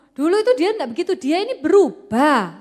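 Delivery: insistent protest. Acted. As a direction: push back harder, convinced he's right.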